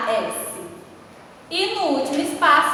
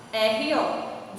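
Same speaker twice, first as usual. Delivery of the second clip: ordinary delivery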